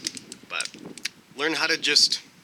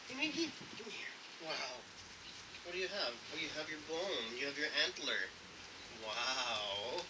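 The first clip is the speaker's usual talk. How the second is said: softly cooing to a beloved dog; soft, affectionate pet-owner voice; fond dog talk; 13 dB quieter than usual. Real, not acted. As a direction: praise the dog tenderly, voice dropped soft. Talking fondly to the dog.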